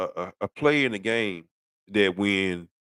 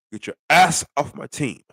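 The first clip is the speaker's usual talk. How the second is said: raised, higher, louder "Get your ass off"; angry demand; 6 semitones higher, 4 dB louder than usual. Real, not acted. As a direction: bark it at the quarterback. Fed-up fan ordering player out.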